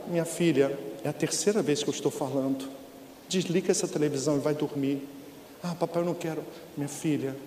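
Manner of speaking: dad gently sending his daughter to bed; speaking softly. Retold or imitated. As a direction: keep it quiet and patient. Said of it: "E falando baixo".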